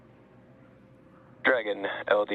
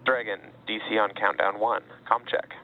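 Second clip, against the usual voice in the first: astronaut radio; 2 semitones lower than usual. Real, not acted. Console calls over comm loop.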